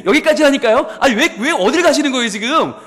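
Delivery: embarrassed giggling protest; flustered laughing. Acted.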